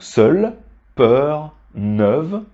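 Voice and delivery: seul, peur, neuve with open rounded eu; open eu sound. Shown as a demonstration. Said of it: "ça se prononce alors comme la voyelle E".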